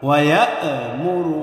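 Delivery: slow ইয়া'মুরু with short vowels, no stretching; no lengthening. Shown as a demonstration. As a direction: say ইয়া'মুরু without drawing any vowel out. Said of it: "কোনো টান নেই". (ইয়া'মুরু টান ছাড়া ধীরে)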